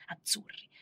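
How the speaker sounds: "Azzurri" said softly with a rising tune; rising call. Retold or imitated. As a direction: lift the end of "Azzurri" like a question. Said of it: "tutti i miei vestiti sono azzurri".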